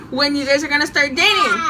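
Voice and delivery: quoting her through bursts of laughter; can't stop laughing while telling; real laughter retelling friend. Real, not acted.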